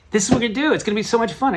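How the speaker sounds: very high, giddy wife voice; imitated excited wife. Wife revealing her fun plan, high and excited.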